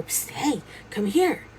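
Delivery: insistent little summons from hiding; furtive beckoning. Retold or imitated. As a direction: call someone over on the sly. Hidden figure beckons a second time.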